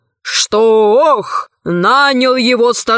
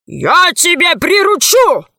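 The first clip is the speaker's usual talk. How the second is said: рык; 7 semitones higher, 3 dB louder than usual. A narrator's reading. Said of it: "рявкнул дракон".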